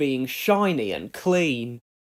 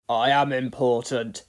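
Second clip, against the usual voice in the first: sniffy; 4 semitones lower than usual. Acted. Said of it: "sniffed Gordon".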